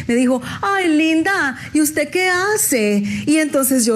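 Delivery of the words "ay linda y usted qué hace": lightly voiced posh lady, higher and slow; elegant lady. The elegant lady asks the young actress, a mild posh drawl. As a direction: mimic a refined señora asking sweetly, drawn out. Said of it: "ella muy elegante".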